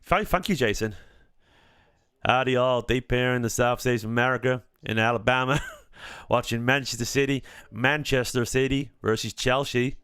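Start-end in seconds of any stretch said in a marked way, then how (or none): 2.2-10.0 a hint of a Southern Alabama accent to greet the chat. Thanking a viewer who likes it, light Alabama accent. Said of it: "someone likes my Alabama accent".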